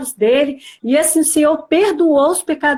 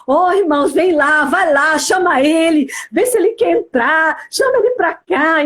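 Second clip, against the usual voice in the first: higher, pressing appeal; urgent request, retold; 3 semitones higher than usual. Wife asking church friends to fetch her husband, urging. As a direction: mildly urge them to go, acting it out. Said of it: "mesmo assim eu falava assim".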